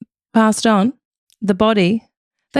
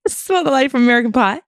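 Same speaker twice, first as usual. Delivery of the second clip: put-on American accent; 5 semitones higher, faster than usual. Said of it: "You sound like that famous woman".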